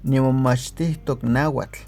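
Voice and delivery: Nimomachtistok náhuatl said slowly and clearly; frase modelo lenta; slow model phrase. Shown as a demonstration. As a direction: say Nimomachtistok náhuatl carefully for learners to repeat. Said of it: "di esta frase".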